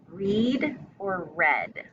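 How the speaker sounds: the two sounds of one spelling; two readings of read. Shown as a demonstration. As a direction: read or read? slow, first read as reed, then read as red. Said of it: "Same spelling".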